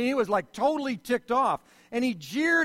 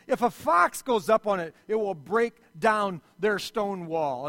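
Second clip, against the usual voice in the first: louder, scornful jeer at the builders; mocking taunt; 5 dB louder than usual. Tobiah jeering at the Jews, loud mocking taunt. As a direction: sneer it like a mocking enemy.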